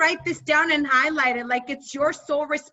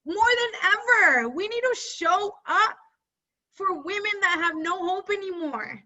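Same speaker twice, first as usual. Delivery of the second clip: emotional; 5 semitones higher than usual. Real, not acted. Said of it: "I don't know why I'm getting emotional".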